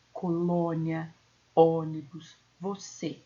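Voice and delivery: "Colônia, ônibus, você" with closed O and E; closed stressed vowels. Shown as a demonstration. Teacher gives circumflex examples, closed stressed vowels. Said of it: "O timbre é fechado".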